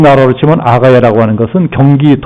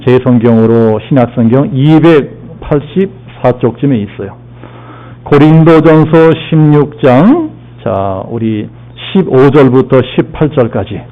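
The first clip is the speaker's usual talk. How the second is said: ordinary delivery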